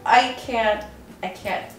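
soft, fading, voice nearly gone; overwhelmed, speechless. Real, not acted. Founder after the first sale, lost for words. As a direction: lose the voice to emotion as it trails away. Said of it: "I have no words".

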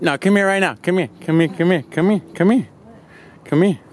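high, loud repeated calls; eager calling. Real, not acted. Calling girlfriend over for the puppy surprise, high and loud. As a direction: call her over, buzzing with nerves.

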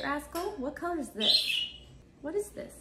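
high sing-song questions to the parrot; high coaxing. Real, not acted. Owner coaxing her parrot to name colors, high sing-song. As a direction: coax the bird in a bright high voice.

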